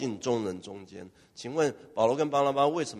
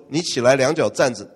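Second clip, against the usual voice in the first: firm command; 6 dB louder than usual. Acted. Paul's command repeated.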